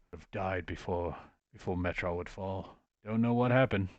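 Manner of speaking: halting, wistful remembrance broken by a sigh. Acted. Man mourning the fallen city he misses, wistful. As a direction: reminisce with a touch of loss.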